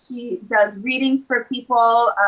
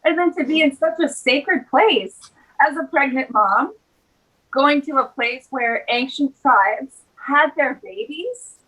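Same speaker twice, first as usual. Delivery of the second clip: tearful; 3 semitones higher than usual. Real, not acted. Recalling a sacred walk as a pregnant mom, tearful. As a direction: hold back real tears, with long pauses. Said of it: "I can feel tears welling up".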